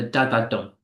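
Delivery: "da-da-dum" as weak, weak, strong; anapaestic rhythm. Shown as a demonstration. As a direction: land on "dum" in "da-da-dum". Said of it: "anapaestic rhythm".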